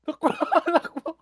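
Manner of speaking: while running. Real, not acted. Hinahabol sa laro, sigaw.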